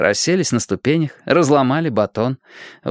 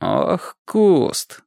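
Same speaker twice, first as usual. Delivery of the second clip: gentle threat; 7 semitones higher than usual. A narrator's reading. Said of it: "с ласковой угрозой произнёс Платон".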